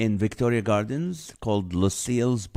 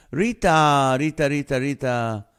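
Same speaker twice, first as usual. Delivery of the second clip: loud, high greeting that eases off; calling out; 5 semitones higher, 7 dB louder than usual. Real, not acted. Greeting a viewer who just joined, calling out. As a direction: call the name out excitedly, over and over.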